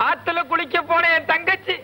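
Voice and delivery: slow, hammed-up sobbing tale; fake sobbing. Fakes tears to see girl.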